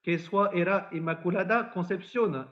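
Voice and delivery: Lourdes patois, lightly proclaimed; mild retold cry in patois. Bernadette to the parish priest, mildly proclaimed in Lourdes patois. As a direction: announce it in Lourdes patois without really shouting. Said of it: "elle crie aussitôt à monsieur le curé".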